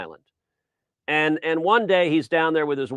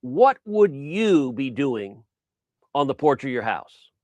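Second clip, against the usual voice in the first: slow, drawn-out exasperated question; a mock fed-up Breyer, dragging it out; exasperated sigh. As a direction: patience wearing thin, spelled out slowly. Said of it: "Breyer sighs".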